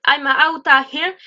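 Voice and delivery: "outta here" for "out of here"; contracted. Shown as a demonstration. Teacher explaining a shortcut, contracted "outta here". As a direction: run "out of" into one word, "outta". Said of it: "c'est juste pour aller plus vite".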